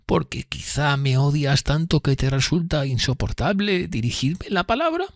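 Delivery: high, slow voice full of dread; fearful tone. A narrator's reading. Miss Havisham afraid that Pip hates her, fearful. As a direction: plead timidly, pitched high and drawn out. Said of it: "con el mismo tono de temor".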